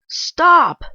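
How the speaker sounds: high, loud shout; sharp shout. Acted. Boss shouting at the new clerk to stop. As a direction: yell it to stop her. Man catches her filing papers.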